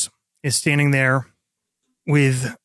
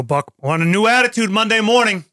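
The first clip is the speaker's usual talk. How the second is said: higher voice, calling across to Buck; a lieutenant's parting jab, voiced higher; calling after him; 7 semitones higher, 3 dB louder than usual. Lieutenant calls to departing sergeant, higher calling voice.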